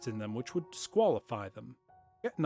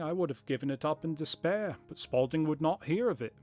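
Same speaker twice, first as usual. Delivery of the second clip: lightly voiced, hammed-up corny accent for Jabez Wilson; corny put-on accent; 3 semitones higher than usual. Wilson telling Holmes about the crowd, in a corny put-on accent. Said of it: "it's kind of fun, though. I think I'll keep doing it".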